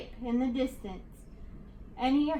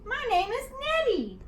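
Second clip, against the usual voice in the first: much higher, loud indignant monster voice; howling monster; 9 semitones higher, 4 dB louder than usual. A narrator's reading. Nettie the monster outraged at George, howling indignation. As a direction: wail it out, outraged. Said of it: "with a horrible howl".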